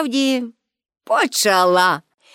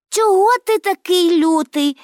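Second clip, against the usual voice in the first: higher, reproachful question; 7 semitones higher than usual. A narrator's reading. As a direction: chide him lightly. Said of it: "дорікнула йому Пепі".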